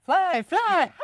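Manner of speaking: high, loud witch screech; old hag. Retold or imitated. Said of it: "But no, it's".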